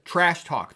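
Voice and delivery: trash talk as two firm, separate beats; both syllables stressed. Shown as a demonstration. Teacher asking listeners to hear it, trash talk evenly double-stressed. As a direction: give trash and talk equal weight. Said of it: "They're both stressed syllables".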